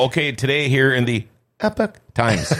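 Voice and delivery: mock news intro. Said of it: "David, you gotta go".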